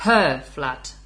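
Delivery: single out "her" with emphasis; stress on HER. Shown as a demonstration. Teacher asking whose flat, stress on HER. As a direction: lean hard on "her" before "flat". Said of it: "make clear to me".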